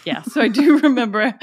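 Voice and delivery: breaking into a laugh mid-line; real laughter while recalling the funny note. Real, not acted. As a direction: let the laugh spill through the words. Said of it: "I've gotta stop laughing".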